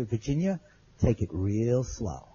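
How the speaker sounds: low, soft and drawn-out warning; slow, careful caution. Retold or imitated. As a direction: caution her calmly, stretching the words. Cautioning injured companion on wet stairs.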